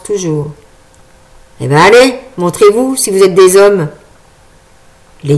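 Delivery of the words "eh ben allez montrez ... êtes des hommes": put-on gruff old man taunting.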